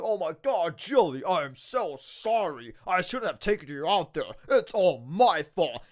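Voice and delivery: a deep mopey sorry; mock apologetic wrestler. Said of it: "Randy Orton's like".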